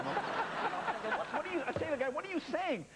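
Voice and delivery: retold exasperated protest. Acted argument with the translator.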